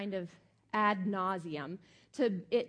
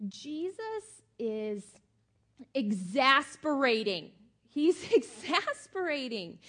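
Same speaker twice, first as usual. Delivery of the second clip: slow, loud, laughing exasperation; exasperated emphasis; 3 semitones higher, 5 dB louder, slower than usual. Real, not acted. Preacher confessing a more honest title, playful exasperation. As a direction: draw out "exasperating" and hit it hard.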